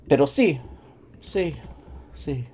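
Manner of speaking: rising, eager sí sí sí; excited yes. Real, not acted. Teacher enthusiastic affirmation.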